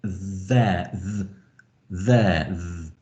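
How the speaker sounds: th voiced with a slight buzz, as in "there"; "there" opened on a buzzing th, tongue beneath the front teeth. Shown as a demonstration. Teacher showing the sound in "there", buzzing voiced th. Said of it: "a kind of slightly buzzing sound".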